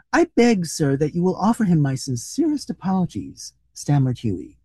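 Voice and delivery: animated, expressive storybook reading; story narration. A narrator's reading. Reader telling a comic short story to listeners, animated narration. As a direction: read it out with lively rises and falls.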